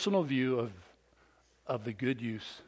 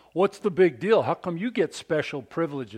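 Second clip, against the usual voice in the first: attack dog; 4 semitones higher, 5 dB louder than usual. Retold or imitated. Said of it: "was an attack dog".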